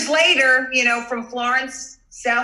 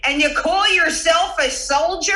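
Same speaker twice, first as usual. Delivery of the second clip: higher-pitched, laughing imitation of yelling; mock yell; 5 semitones higher than usual. Daughter imitating her mother yelling at the referee, mock yell. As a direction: imitate an outraged heckle, amused by it. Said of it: "my mother yelled at the referee".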